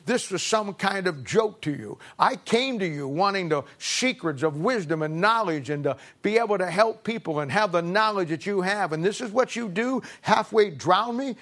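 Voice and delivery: put-on a wronged young man letting fly; infuriated. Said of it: "he's infuriated".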